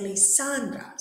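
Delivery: li-SAN-dra, falling at the end; correct middle stress. Shown as a demonstration. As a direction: settle Lisandra on its middle syllable. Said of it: "so the stress is in the middle".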